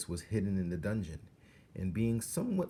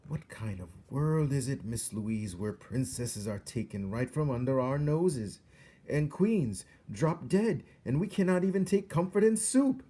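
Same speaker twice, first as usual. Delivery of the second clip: rising to a loud, high wail; anguished outburst; 6 semitones higher, 5 dB louder than usual. A narrator's reading.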